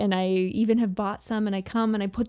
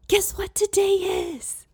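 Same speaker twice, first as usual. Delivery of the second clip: much higher, thrilled guess-what; excited teasing; 10 semitones higher than usual. Retold or imitated. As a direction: tease it out like a big surprise. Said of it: "I looked at him really excitedly".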